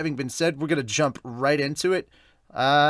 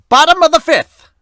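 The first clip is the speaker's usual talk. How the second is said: high, loud stadium announcer call; inning announcer voice; 14 dB louder than usual. Shown as a demonstration. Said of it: "I'm gonna use that voice to do it".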